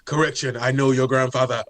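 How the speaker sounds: lightly mimicked cartoon sage's voice; Rafiki. Co-host mocking a wrestler's new accent, Rafiki impression. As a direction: imitate an animated mentor, a little exaggerated. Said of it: "he sound like Rafiki".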